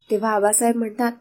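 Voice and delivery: plain reading voice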